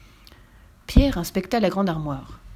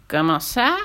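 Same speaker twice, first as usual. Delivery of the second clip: indignant; 3 semitones lower, slower than usual. Acted. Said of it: "fulmina Cornebidouille indigné".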